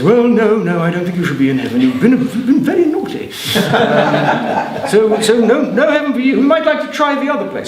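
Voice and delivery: a hint of a prissy gatekeeper; scolding Saint Peter. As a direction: tut at a naughty soul. St Peter refuses heaven.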